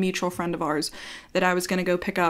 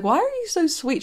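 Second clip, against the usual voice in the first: amazed question; 10 semitones higher than usual. Retold or imitated. Asking her why she's so sweet.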